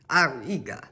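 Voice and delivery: quick, uncertain stab at a German accent; faked German accent. Shown as a demonstration. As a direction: have a go at a German accent and land nearer Spanish. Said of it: "I don't know how to fake a German accent".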